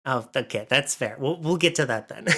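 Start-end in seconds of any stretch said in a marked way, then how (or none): 1.2-2.4 hyper, laughing burst; wired and giggly from coffee; too much caffeine. Real, not acted. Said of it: "I'm extra hyper from coffee".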